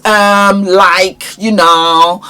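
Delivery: loud, drawn-out filler words. Shown as a demonstration. Coach showing in-between words to avoid, drawn-out fillers. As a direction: dwell on each filler as a bad example. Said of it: "Do not use in-between words".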